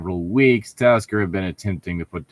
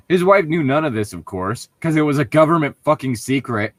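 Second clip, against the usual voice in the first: mock rewrite; 6 semitones higher, 3 dB louder than usual. Shown as a demonstration. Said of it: "You could have just said".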